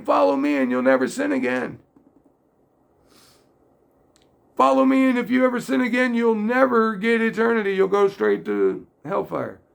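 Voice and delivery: mock hellfire sermon; mock harsh preacher. Mock preacher's false version.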